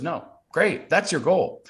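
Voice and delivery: high, emphatic retold encouragement; enthusiastic mom. Mom backs son's triathlon dream, enthusiastic. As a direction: imitate a mother locking in the goal.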